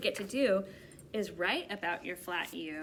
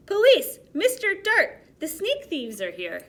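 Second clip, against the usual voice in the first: furious; 9 semitones higher, 12 dB louder than usual. A narrator's reading. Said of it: "This made Stanley furious".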